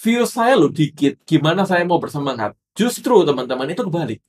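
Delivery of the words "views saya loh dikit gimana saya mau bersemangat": viewer's complaint. Retold or imitated. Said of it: "dari teman-teman juga bertanya-tanya".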